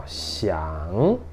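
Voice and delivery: "xiang" sinking low, then rising; third-tone "xiang". Shown as a demonstration. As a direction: draw out "xiang" with a soft dip and climb. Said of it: "ele desce e sobe".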